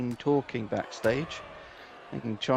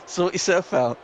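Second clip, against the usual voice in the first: put-on Northern English accent, coaxing. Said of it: "why is he now Northern?".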